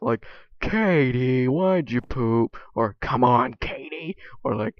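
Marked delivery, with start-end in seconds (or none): 0.6-2.6 mock upset scold. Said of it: "like, upset". 3.0-4.2 louder, calling out to the dog; a mock call to the dog. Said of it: "It can either be".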